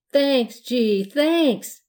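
loud, high surprised thanks; pleasantly taken aback, voice lifting. A narrator's reading. Children handed apples by the man, surprised.

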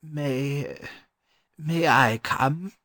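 hesitant, timid scholar. A narrator's reading. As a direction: ask timidly, halting after the first word. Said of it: "the learned gentleman timidly asked".

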